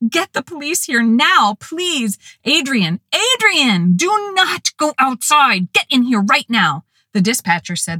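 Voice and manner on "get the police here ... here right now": high, frantic pleading; frantic scream. A narrator's reading. Caller screaming at dispatcher and husband, high frantic. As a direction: beg the dispatcher, panicking. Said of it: "I screamed at the dispatcher".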